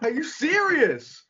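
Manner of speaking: high, slow, disbelieving; incredulous quote. Retold or imitated. Fan groaning at a third count, high and slow. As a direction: stretch it out in disbelief. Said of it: "And I'm like".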